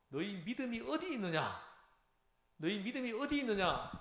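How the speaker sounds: mild rebuke with a falling ending; imitated scolding. Jesus to his disciples after the storm, imitated mild scolding. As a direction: quote a master gently reproving followers. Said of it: "막 혼을 내는 거예요".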